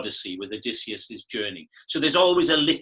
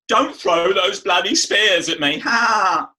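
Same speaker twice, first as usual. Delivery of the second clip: higher, louder Michael Caine in Zulu; a singer doing Caine; 7 semitones higher, 8 dB louder, slower than usual. Retold or imitated. A singer mimicking the speaker's Caine impression from Zulu, loud and high. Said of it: "doing an impression of me".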